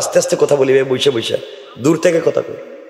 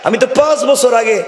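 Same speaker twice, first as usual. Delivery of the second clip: high, indignant voice of a grown-up daughter; preacher voicing a daughter who scoffs at her father's match; defiant daughter; 6 semitones higher than usual. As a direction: play the brash girl brushing off her father.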